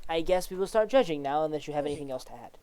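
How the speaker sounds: a hint of a guarded official confiding; reserved judge. Judge explains the truth spell to Zhao, lightly voiced and reserved.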